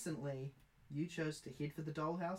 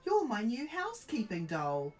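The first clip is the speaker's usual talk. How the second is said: mother doll voice; 7 semitones higher, 6 dB louder than usual. Acted.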